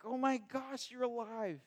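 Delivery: high amazement building to a loud joyful cry; overjoyed amazement. Retold or imitated. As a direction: start awed, then burst out with joy. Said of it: "They're like".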